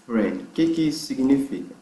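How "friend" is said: slow, careful English model; slow model reading. Shown as a demonstration. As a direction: read it slowly for students. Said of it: "como é a pronúncia dessa frase". (leitura lenta e cuidadosa)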